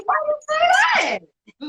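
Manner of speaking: high, yelled why-you-say-that; hammed-up outraged reply; playful yell; mock shout. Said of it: "I said".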